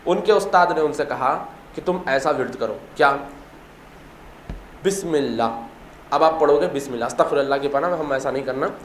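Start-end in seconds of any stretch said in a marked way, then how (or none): 4.8-6.2 drawn-out, soft invocation; slow recitation. Retold or imitated. Teacher gives the pupil the words to chant, slow recitation. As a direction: intone it slowly and quietly.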